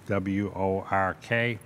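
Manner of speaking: spelled out slowly in a Boston accent; Boston accent, letter by letter. Shown as a demonstration. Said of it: "that's my Boston accent".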